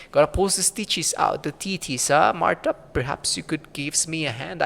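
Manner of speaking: lightly voiced old crone, muttering to herself; a hint of a grumbling crone; mumbling old crone. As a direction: play a cranky old hag talking to herself. Marta answers the player.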